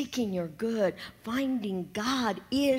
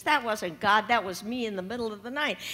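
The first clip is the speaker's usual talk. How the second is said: gloating neighbour; 3 dB louder than usual. Acted. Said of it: "he laughs, and he says".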